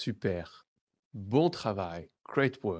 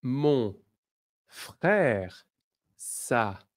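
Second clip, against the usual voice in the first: slow model phrase; slower than usual. Shown as a demonstration. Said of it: "Next one".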